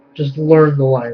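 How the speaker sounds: normal talking voice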